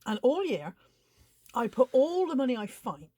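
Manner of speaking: talking through hiccups; words broken by hiccups. Real, not acted. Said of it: "sorry, I've got hiccups".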